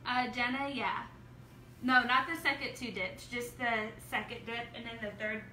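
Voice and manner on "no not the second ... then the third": hiccups. Real, not acted. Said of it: "I got the hiccups".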